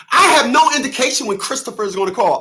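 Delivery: high mocking voice of the ex; mocking her. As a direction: replay her reply in a mock high voice. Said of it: "now I'm Christopher".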